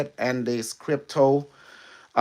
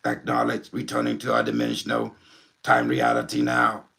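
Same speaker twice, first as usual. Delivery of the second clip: Unimetric One. Acted. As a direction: speak like an alien intelligence through a medium. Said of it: "you wanna meet, uh, Unimetric One?".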